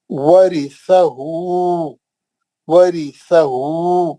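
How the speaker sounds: slow, drawn-out Quranic recitation. Shown as a demonstration. Teacher recites word slowly for class. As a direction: chant each syllable slowly for students. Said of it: "एक ही item है".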